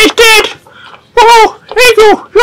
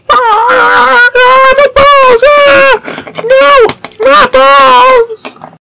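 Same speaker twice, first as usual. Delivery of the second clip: higher, drawn-out mock cry of pain; play-acted pain; 4 semitones higher, much slower than usual. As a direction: wail over a pretend blow to the groin. Acted groin hit in play fight.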